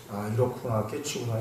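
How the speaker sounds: a hushed, quietly pleased aha; quiet realization. Retold or imitated. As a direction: mutter it to yourself as it clicks. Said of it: "조용히 공부하는 사람".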